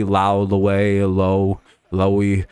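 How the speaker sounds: Lowe, Lowe, Lowy each sounded differently; demonstrating name variants; different pronunciations. Shown as a demonstration. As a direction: run through the ways to say Lowe. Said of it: "said in five different ways".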